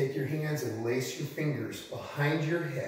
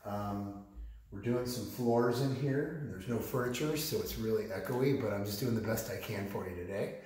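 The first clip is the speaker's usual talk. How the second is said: echoey empty room; big hall echo. Real, not acted. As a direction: voice bouncing off bare walls. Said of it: "sorry for the echoey s-, sound".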